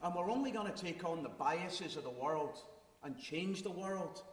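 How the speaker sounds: speaking in a Glasgow accent; broad Glaswegian speech. Real, not acted. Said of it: "Glaswegian accent".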